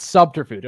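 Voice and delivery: Subterfuge as sub-ter-fudge; wrong attempt. Shown as a demonstration. Streamer repeating the word after hearing it, still off. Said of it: "I said it wrong again".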